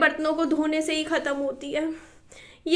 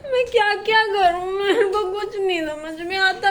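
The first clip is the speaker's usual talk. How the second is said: tearful laughing despair; 3 semitones higher than usual. Real, not acted. Overwhelmed housewife to Zubin, laughing and crying. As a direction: laugh through the tears.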